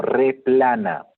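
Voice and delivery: Replana drawn out slowly with a rising end; teacher introducing Replana slowly; slow emphasis. Shown as a demonstration. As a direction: present Replana slowly, like a new term. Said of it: "¿Qué cosa es un replanismo?".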